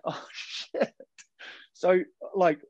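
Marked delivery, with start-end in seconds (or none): 0.0-0.9 breathy whispered oh shit; whispered dismay. Retold or imitated. Rower to his host, reliving the race in a whisper. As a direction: whisper it as if you just realised you might lose. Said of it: "And I was like".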